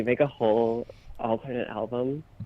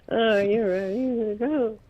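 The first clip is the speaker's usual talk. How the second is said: high hype call; hype shout; 9 semitones higher than usual. Pretend. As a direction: pump up the crowd. Song-like hype repeat.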